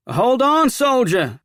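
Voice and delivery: high, loud shout to halt a rider; calling out. Acted. Calls out to oncoming rider.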